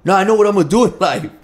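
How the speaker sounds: loud, high, quick and insistent; fired up. Retold or imitated. Son insisting to his dad about his future, fired up. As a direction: burst out with it like an eager son. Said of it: "'cause he was all fired up".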